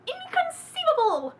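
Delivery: high, loud, slow Princess Bride shout; movie quote. Retold or imitated. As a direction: belt it like the movie character. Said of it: "that movie memorized".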